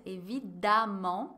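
évidemment said slowly with the em sounding like a; teacher drawing out évidemment for learners; pronunciation demo, slow. Shown as a demonstration. Teacher to students, a slow careful évidemment. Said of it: "Olha a pronúncia".

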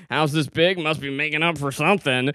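lightly hammed-up movie line; hammed-up Rachel McAdams. Retelling the car scene at the brother's house, mildly hammed up. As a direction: quote it with a touch of ham. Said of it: "really hamming it up".

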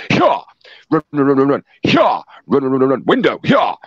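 shouting hyah and run run run; jockey urging horse. Retold or imitated. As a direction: urge him on like a racehorse jockey. Acted urging, jockey-like cries.

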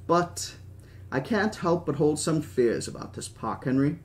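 lightly voiced British old man; Hammond. Old park owner confiding fears to Henry, lightly British. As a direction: confide a worry with a mild British accent.

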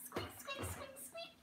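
very high, hushed little squeaks; mouse squeak. Shown as a demonstration. Getting the baby to copy the mouse, very high soft squeaks. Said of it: "The mouse goes squeak".

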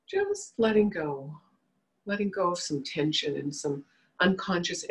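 unhurried guiding voice with long pauses; measured meditation leader, settling as each phrase ends; guided meditation. Real, not acted. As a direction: lead them gently into relaxing, phrase by phrase.

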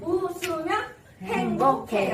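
slow, measured call for repetition; slow practice phrase. Shown as a demonstration. Instructor teaching seniors the phrase, slow model reading. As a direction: say it slowly so the class can follow. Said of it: "자, 같이 한번 해볼게요".

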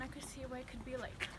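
breathless from walking in wooden shoes; winded, short of air; out of breath. Real, not acted. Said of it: "I'm out of breath".

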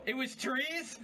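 high, laughing question. Real, not acted. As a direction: giggle out the question.

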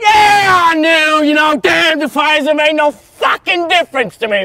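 yelling that he knew; defiant shout. Acted. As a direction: throw it back in his face. Defiant admission in shouting match.

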